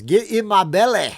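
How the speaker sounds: high, loud Scottish Fat Bastard impression. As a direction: bellow it like a greedy Scot. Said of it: "fat, you know what, from Austin Powers".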